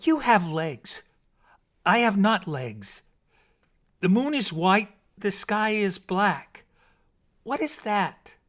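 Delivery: high, loud, slow impatient questions; impatient mermaid. A narrator's reading. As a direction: press the hunter for an answer. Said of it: "asked impatiently".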